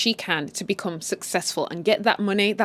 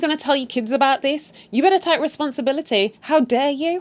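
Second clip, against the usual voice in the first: higher-pitched, mildly angry telling-off; mock outrage, pitched up; indignant confrontation; 6 semitones higher than usual. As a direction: act out an indignant accusation. Acted confrontation from the show.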